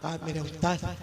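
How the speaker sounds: hushed, soft answer; subdued reply. Acted. Dead student answering his teacher, subdued. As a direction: drop right down after the outcry.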